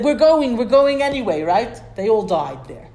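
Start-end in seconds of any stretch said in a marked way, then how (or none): 0.0-1.4 high, loud mock cry of defiance; defiant shout. People defying Moshe, shouting they will go anyway. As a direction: shout it like a stubborn crowd.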